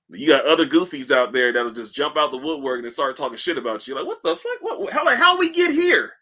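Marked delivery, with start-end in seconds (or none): 3.9-6.1 laughing disbelief. Real, not acted. Laughing at chat going off topic.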